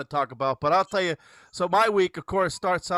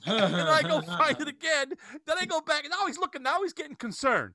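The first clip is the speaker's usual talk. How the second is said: laughing; 10 semitones higher than usual. Real, not acted. Laughing through the pen story.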